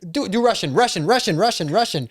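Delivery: mock eager pestering. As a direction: pester like an eager fan, chanting. Imitates fans begging for accent.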